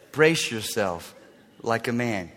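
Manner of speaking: low, slow, quiet command; deep, deliberate divine order; stern God. Acted. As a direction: warn him with measured gravity. God's warning to Job, acted.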